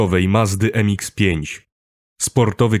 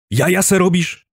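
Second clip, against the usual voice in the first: high, indignant, incredulous question; irritated outburst; 11 semitones higher, 3 dB louder than usual. A narrator's reading. Driver refusing to be sent off, irritated outburst. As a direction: burst out in irritation, voice shooting up. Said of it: "wybuchł poirytowany".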